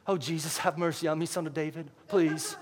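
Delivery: soft, timid little plea; quiet. Shown as a demonstration. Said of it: "I don't believe that this was a quiet".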